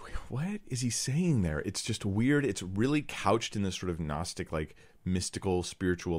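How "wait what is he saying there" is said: puzzled listener's voice, higher; lightly voiced bewildered listener; confused listener. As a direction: play the baffled audience member. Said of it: "you're like".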